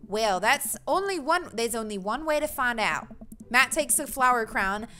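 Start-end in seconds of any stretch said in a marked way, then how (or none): 0.1-3.1 put-on rough Australian accent; not-quite-right Australian dad voice; slipped-into accent. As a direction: drift into an amateur Australian accent. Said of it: "I slipped into that accent".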